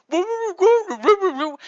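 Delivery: high, loud hooting ghost moan; spooky high ghost woo. Pretend. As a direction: howl it like a cartoon ghost. Dad making ghost noise.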